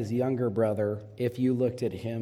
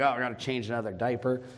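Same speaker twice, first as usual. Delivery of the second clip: grumbling sigh; faster than usual. Retold or imitated. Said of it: "I'm like".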